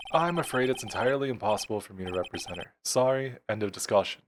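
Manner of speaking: lightly voiced stuffy refusal; pompous old lawyer. Grossberg refusing to represent the client, stuffy. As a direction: close the matter with mild pomposity.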